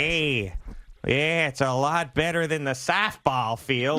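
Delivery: put-on slow, drawn-out upstate New York accent. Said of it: "weird upstate New York, Midwest accent".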